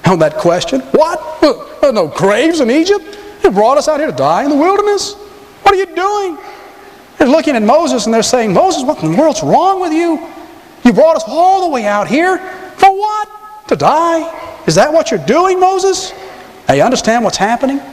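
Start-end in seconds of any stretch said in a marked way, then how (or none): 0.9-6.4 high-pitched, questioning Jewish inflection; indignant questions with Jewish inflections, pitch climbing sharply. Acted. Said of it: "almost the Jewish inflections on that question". 8.5-16.1 high, exasperated questions with Jewish inflection; hammed-up Jewish-inflected complaint. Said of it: "almost the Jewish inflections on that question".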